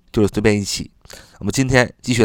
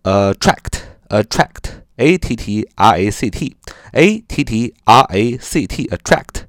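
slow spelling; slower than usual. Shown as a demonstration. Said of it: "还可以说".

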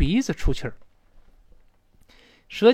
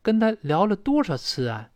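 higher-pitched, concerned questioning; animated, raised-pitch worried query; concerned asking; 6 semitones higher than usual. Acted. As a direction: ask a friend with lively concern. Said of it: "就很关心问了".

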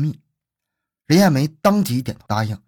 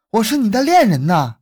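loud, high, desperate cry; acted outcry of a struggling victim; struggling plea; 9 semitones higher, 5 dB louder than usual. A narrator's reading. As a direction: plead for your life, voice raised. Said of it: "任艳梅挣扎着从牙缝中说出一句含糊不清的话".

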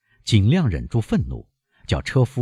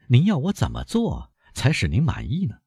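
kindly; 7 semitones higher than usual. A narrator's reading. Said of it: "和颜悦色地问".

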